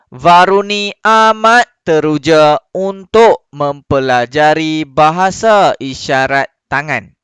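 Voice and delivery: slow, projected classroom reading; bacaan contoh. Shown as a demonstration. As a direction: read each sentence out clearly, stopping at full stops. (baca kuat, perlahan dan jelas)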